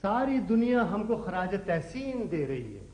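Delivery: poet reciting with stretched line endings; declaimed couplet. Acted. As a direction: declaim it like verse at a mushaira. Son declaims his couplet to parents.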